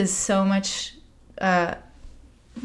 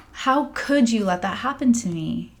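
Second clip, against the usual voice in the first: quieter, hurt repetition of the accusation; softer repeat; 3 semitones higher than usual. Retold or imitated. To her healing master, a subdued hurt repeat. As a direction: let the anger sink into hurt. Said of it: "I was so mad at John Michael".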